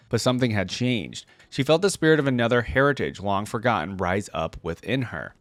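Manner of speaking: lore read in a lightly dramatic storyteller voice; story narration. A narrator's reading. Reading Nidalee's lore to viewers, gentle story narration. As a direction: read it like the opening of a legend, unhurried. Reads champion biography aloud.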